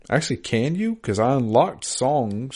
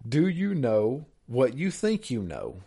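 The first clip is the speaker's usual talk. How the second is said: slow, softer riddle recital; mysterious riddle reading; 3 dB quieter, slower than usual. Retold or imitated. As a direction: read it like a sly riddle. Reads riddle email slowly, hushed.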